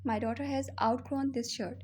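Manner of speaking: slow, word by word model sentence; slow teaching model. Shown as a demonstration. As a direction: dictate it slowly to the class. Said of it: "ठीक है?". (धीमा, साफ़ उच्चारण)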